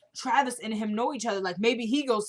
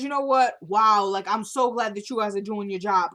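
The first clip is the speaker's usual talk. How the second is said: mock praise dripping with contempt; sarcastic outburst; 6 dB louder than usual. Kelly's sarcastic outburst at police.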